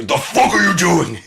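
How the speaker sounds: high, loud, disbelieving; mock yell. At the Batman guy, a high mock yell. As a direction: throw the question out loud. Retold outburst.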